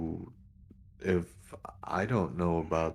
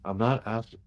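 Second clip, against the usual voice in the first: raised pitch, mildly exasperated, cut short; a little exasperated; 5 semitones higher, 4 dB louder than usual. Acted. Officer interrupting a reporter guarding her sources, a little exasperated. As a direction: push back with a touch of exasperation. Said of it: "actually a little exasperated at that".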